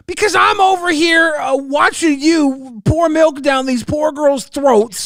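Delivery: mock outrage. Accusing her of forcing milk on girls, in mock outrage. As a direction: play up fake fury at her. Host angrily accusing co-streamer.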